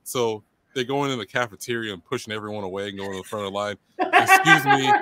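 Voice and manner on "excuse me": high, loud, drawn-out mock demand; mock pushy entitlement. Student barging through the cafeteria line, mock pushy. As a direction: play an entitled line-cutter pitched way up.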